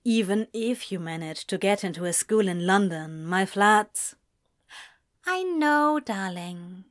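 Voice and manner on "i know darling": said softly. A narrator's reading. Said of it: "Ezra said softly".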